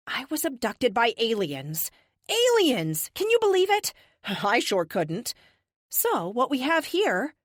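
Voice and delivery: high, animated mock amazement; defiant captive, incredulous. Captive to captors about alien abduction, theatrical disbelief. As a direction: play it up with exaggerated disbelief and a laugh.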